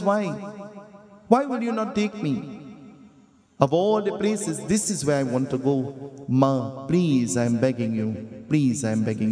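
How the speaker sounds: put-on mild begging child, falling to a plea. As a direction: plead like a boy desperate for a yes. Ganesh begs to go to pond.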